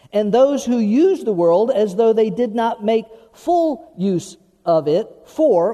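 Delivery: loud, measured Bible reading from the pulpit; scripture reading. Acted. Pastor reading scripture aloud to his congregation, proclaiming. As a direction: read the verses out like proclaiming them to the church.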